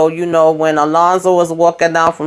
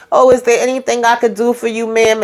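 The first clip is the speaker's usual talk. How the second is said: higher, overly sweet mocking of a meek man; mock timid Sam; 5 semitones higher than usual. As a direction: tease him for acting too cute and meek. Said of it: "you playing it a little too cute".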